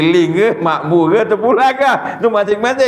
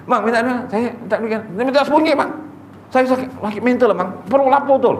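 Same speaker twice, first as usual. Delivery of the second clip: much higher mock beggar voice, laughing; wheedling beggar; 7 semitones higher, faster than usual. Beggar on a motorbike greets the ustaz, high wheedling mock voice. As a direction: sweet-talk the ustaz with a laugh. Beggar pleads mental illness.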